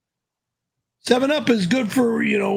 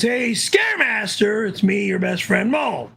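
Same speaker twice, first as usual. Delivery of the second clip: speaking up. Shown as a demonstration. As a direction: speak up and project it out. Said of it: "can you speak up a bit?".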